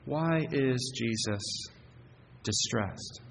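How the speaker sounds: hushed question. Acted. Rhetorical question after pause.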